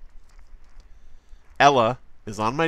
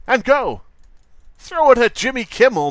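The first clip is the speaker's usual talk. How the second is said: higher, louder hammed-up order to throw; mock command shout; 11 semitones higher, 7 dB louder than usual. Streamer acting out a net throw at Kimmel, mock shout. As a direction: bark the signal like a bumbling hunter.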